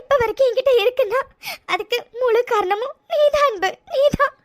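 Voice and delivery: tearful, half laughing gratitude; crying. Acted. Telling her husband he alone saved the chain, in tears. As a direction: laugh and cry at once. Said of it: "என்ன இது இப்படி அழுதுட்டு இருக்கா".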